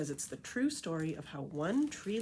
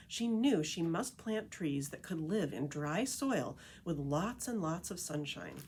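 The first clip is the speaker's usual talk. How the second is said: lively picture-book read-aloud voice; story narration; 2 semitones higher than usual. A narrator's reading. Reading The Tree Lady to listeners, storytelling narration. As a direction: read it like a storyteller to a group of kids.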